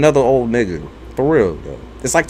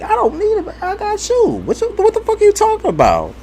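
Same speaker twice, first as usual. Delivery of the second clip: much higher, mock cocky. Teasing her mother in a high mock voice. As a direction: pitch it way up, brash and teasing. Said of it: "I was like".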